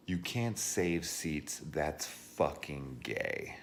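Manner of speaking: slow, drawn-out sneer at the rude guy; mocking quote. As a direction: drag out a smug know-it-all line.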